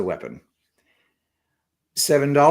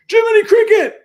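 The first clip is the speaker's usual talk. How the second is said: high, loud mock yell of the name; sudden high-pitched holler; shout-out; 11 dB louder than usual. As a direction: belt it out as a comic shout-out. Performing a requested shout out.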